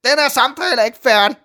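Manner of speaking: high, loud yell from another room; acted angry parental holler; father shouting. A narrator's reading. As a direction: shout after someone storming off. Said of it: "råber min far fra stuen".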